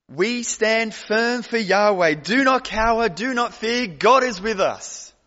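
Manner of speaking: loud, rallying battle cry to the faithful; rally the people to stand firm; rousing speech. Pretend. Preacher rallying the doomed people, loud and defiant.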